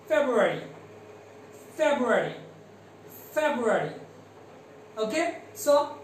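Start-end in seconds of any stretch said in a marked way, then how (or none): 0.1-3.9 February with every syllable clear: feb-ru-a-ry; correct February. Shown as a demonstration. Teacher modelling February for students to repeat. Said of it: "we have to say this word is".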